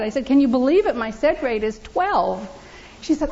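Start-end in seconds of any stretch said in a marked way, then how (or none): 0.2-2.4 excited. Retold or imitated. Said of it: "I was all excited".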